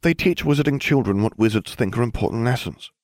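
high, know-it-all schoolgirl voice; prim Hermione. Acted. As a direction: lecture him like the cleverest witch in class. Hermione explaining.

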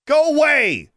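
high, loud angry shout; furious high-pitched dismissal. A narrator's reading. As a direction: shout to drive him off. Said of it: "she shouted".

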